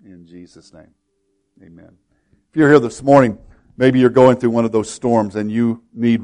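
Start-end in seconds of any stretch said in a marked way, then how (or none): 0.0-2.0 very soft, low amen; hushed prayer close. Real, not acted. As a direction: let the prayer fade right down. Closing a prayer.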